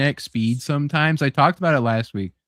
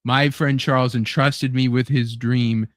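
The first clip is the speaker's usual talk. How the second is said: Magneto quote; 4 semitones lower than usual. Retold or imitated. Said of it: "and he's like".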